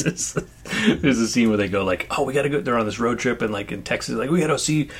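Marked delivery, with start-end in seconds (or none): 2.1-2.6 mock excitement, pitched up; eager movie quote. Acted eager road trippers in retold scene. 4.3-4.9 pitched-up mock enthusiasm; higher, keen retold plea; eager movie quote. Acted eager road trippers in retold scene.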